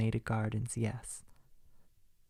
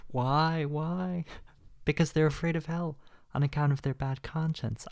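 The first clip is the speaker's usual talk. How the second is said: scornful outburst; 4 semitones higher, 3 dB louder than usual. Acted. Scornful rant about dying atheists.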